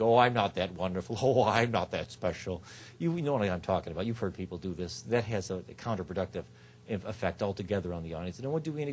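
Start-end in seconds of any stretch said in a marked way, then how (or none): 0.0-2.6 mock modesty with a laugh; tongue-in-cheek. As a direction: play falsely humble, lower in pitch. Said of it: "is all tongue-in-cheek".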